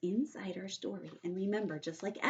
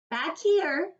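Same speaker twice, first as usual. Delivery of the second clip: called out; 9 semitones higher, 6 dB louder than usual. Acted. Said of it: "called Mother".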